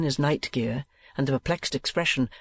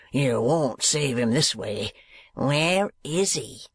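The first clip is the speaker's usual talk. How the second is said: slow, a touch of fear under bluster; understated frightened threat; Squeers hiding fear; slower than usual. A narrator's reading. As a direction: demand it while trying to look calm. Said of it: "evidently frightened".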